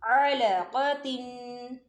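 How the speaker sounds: अलक़तिन stretched very slowly, Ain from mid-throat; slow Quranic recitation. Shown as a demonstration. Teacher answering how, reciting slowly and precisely. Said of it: "कैसे?".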